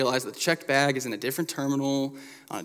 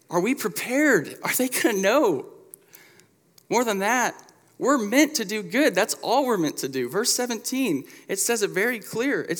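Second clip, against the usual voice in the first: high, loud preaching build; rising preaching fervor; 9 semitones higher, 3 dB louder than usual. Real, not acted. Pastor rallying the church, loud and high. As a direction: lift the room with a preacher's call.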